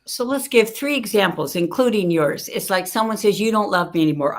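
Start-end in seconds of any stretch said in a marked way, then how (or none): 3.4-4.3 loud, acted complaint; mock accusation. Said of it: "No argument, right?".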